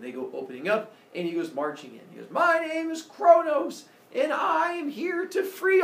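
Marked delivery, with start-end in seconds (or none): 2.3-5.8 loud, high, slow heroic announcement; hammed-up drawn-out hero's entrance; grand proclamation. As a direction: declaim your name to the whole pit. Kronos announces himself grandly.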